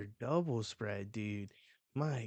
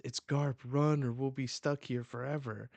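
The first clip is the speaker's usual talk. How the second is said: louder and higher, urgent alarm; panicked warning; 4 semitones higher, 5 dB louder than usual. Acted. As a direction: warn them to flee, higher and louder. Panicked pirate warning the crew.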